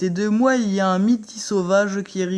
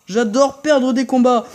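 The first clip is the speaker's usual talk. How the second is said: laughing sarcasm; 6 semitones higher, 7 dB louder than usual. Real, not acted. Sarcastic after losing fight.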